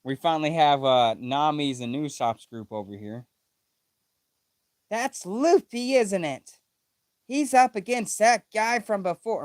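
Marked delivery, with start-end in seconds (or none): 4.9-9.5 a hint of Chopper. Reading Nami's line by mistake, lightly in Chopper's voice. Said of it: "why am I using Chopper's voice".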